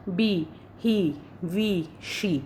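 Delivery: बी, ही, वी, शी with the ई held long and slow; lengthened ee. Shown as a demonstration. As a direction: draw out each ई slowly. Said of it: "थोड़ा सा इसको भी लंबा". (ई को लंबा खींचकर)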